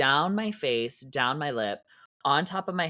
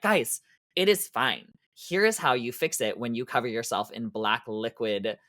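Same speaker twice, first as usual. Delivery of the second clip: calm teacher reassurance. Retold or imitated. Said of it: "And I'm like".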